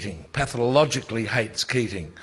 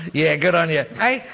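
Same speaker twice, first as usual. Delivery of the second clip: higher and louder mocking parliamentary jeer; imitating Keating; 5 semitones higher, 5 dB louder than usual. Telling the panel how Keating taunted Downer, mocking jeer. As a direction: ham up a gloating Keating taunt. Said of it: "That comes back".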